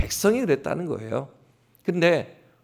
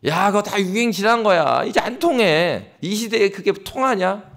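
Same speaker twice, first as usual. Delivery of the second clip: higher-pitched mock dismissal; dismissive scoffers; 3 semitones higher, 3 dB louder than usual. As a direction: wave it off like a scoffer, lightly acted. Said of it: "베들레헴을 보면서 그 얘기하는 겁니다".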